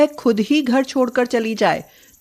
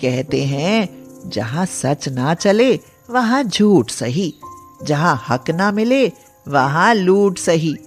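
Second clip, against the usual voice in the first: a granny giving firm advice; wise old woman; 4 semitones lower than usual. Acted. (समझाती बूढ़ी अम्मा)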